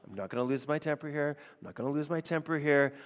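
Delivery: quick muttered self-calming, imitating Saul; talking himself down fast; self-counsel. Saul counselling himself, a quick mock self-calming. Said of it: "it's almost like self-counsel".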